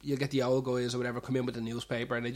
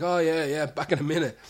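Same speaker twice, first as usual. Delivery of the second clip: light, airy brush-off, higher and louder; breezy excuse; 3 semitones higher, 5 dB louder than usual. Retold or imitated. Barman excusing himself from a customer, breezy. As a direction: wriggle away casually. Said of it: "It's like".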